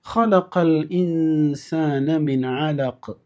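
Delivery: slow, drawn-out recitation; Quran recitation. Shown as a demonstration. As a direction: chant the verse slowly. Recites the verse.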